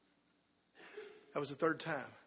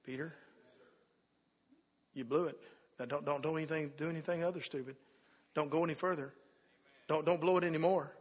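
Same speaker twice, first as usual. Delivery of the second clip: hurt; 3 semitones lower than usual. Retold or imitated. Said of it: "I think it was hurt".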